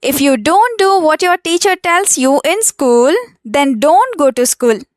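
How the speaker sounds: very slow, careful English reading; slow model sentence. Shown as a demonstration. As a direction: read it out slowly so learners can follow. Teacher models the sentence slowly. (నెమ్మదిగా స్పష్టంగా చదవడం)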